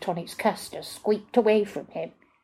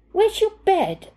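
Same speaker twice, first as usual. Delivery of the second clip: Joshua demanding; 12 semitones higher, 5 dB louder, slower than usual. A narrator's reading.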